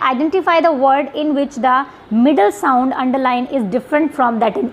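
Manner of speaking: reading the question aloud slowly; spelling out an exam question to students. Shown as a demonstration. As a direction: read each word of the question out deliberately.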